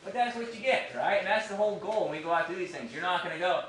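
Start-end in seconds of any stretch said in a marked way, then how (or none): none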